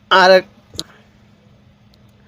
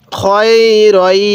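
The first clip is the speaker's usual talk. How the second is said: slow syllable reading; much slower than usual. Shown as a demonstration. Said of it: "কিভাবে শিখব".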